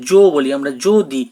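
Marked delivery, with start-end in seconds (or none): 0.1-0.2 জো as a rounded "jo"; the syllable জো shown with ও; O-like vowel. Shown as a demonstration. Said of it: "ওকারের মতো উচ্চারণ করি". 0.9-1.2 যদি as "jo-di"; যদি with ও after the j; O-like vowel. Shown as a demonstration. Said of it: "ওকারের মতো উচ্চারণ করি".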